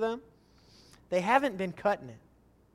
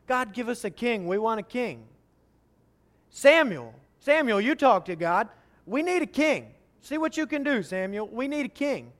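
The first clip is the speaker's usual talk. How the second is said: pleading crowd; 3 semitones higher, 6 dB louder than usual. Acted. Israelites begging Samuel.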